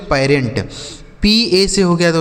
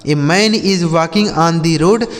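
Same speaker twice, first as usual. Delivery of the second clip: slow example reading; much slower than usual. Shown as a demonstration. Teacher repeats example sentence slowly.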